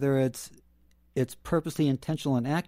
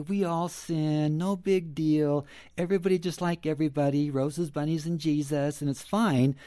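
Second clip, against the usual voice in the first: sarcastic. Retold or imitated. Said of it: "you hear the sarcasm, at least in my voice".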